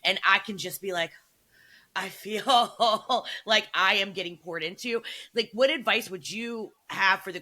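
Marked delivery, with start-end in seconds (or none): 1.9-5.0 slow, dreamy voice breaking into a laugh. Pretend. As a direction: savour it and laugh through it. Daydreaming about the soft life.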